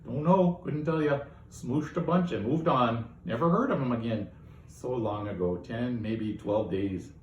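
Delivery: a hint of a folksy old gossip; folksy old neighbor, lightly voiced; old gossipy local. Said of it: "Barb the old local gossip".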